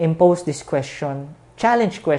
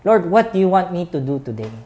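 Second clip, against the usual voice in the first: praying aloud; 5 semitones higher, 5 dB louder, faster than usual. Shown as a demonstration. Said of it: "Ask Him".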